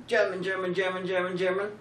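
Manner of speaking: mock German. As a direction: caricature a German killer, babbling in mock accent. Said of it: "that's what you say when you're German".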